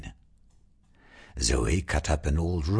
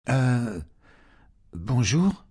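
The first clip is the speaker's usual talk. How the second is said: stammering; 7 semitones higher than usual. Acted. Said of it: "Zoe stammered".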